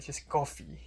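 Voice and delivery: COFFEE falling on its last syllable. Shown as a demonstration. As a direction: correct it, letting "coffee" drop at the end. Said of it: "you don't have to do that".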